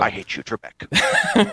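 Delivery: high, slow, hammed-up Scottish star impression; Sean Connery. Co-host as game-show contestant to the host, Connery impression. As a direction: sneer it slowly in a mock Scottish film-star voice. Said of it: "a passable Sean Connery for you".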